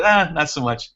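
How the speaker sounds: lightly voiced unimpressed passer-by; dismissive stranger again. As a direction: shrug it off with a lazy "Ah" up front. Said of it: "That's exactly how he said it".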